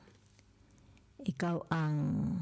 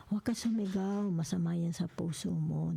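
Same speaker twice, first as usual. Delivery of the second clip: composed plea in a raised pitch; composed reply; 2 semitones higher than usual. Acted. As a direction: answer a shouter with composure, pitch lifted. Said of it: "Very, very composed kayo".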